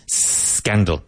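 "Scandal" starting straight on the S; careful pronunciation. Shown as a demonstration. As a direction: say "Scandal" with no vowel before the S. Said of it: "careful of the pronunciation".

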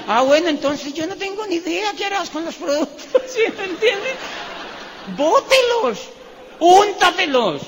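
high-pitched, laughing exasperated scolding; mock exasperation. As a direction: play fed up, pitch shooting way up. (exasperación burlona en tono muy agudo)

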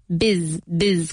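"biz" with its vowel said like a Spanish I. Shown as a demonstration. Teacher isolating the first syllable of businessman, "biz" with an I. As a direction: say "biz" with an i sound. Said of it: "como si fuera una I".

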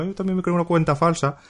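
a light imitation of a friend telling her news; imitating Mónica. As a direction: play back the friend's message in a mild put-on voice. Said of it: "me dice Mónica".

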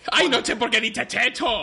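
lisping comic voice. Acted. Lisping joke voice.

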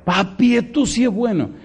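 lightly voiced children, high and delighted; a hint of children's glee, climbing high; excited kids. Father voicing his kids thrilled over cheap books, high and gleeful.

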